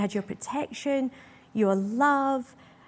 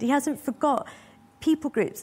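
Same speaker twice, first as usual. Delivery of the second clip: "hasn't" pitched higher, then a falling tune; stress on hasn't; 5 semitones higher than usual. Shown as a demonstration. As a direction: lean on "hasn't" as the repeated point. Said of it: "he hasn't forgot the Church of England".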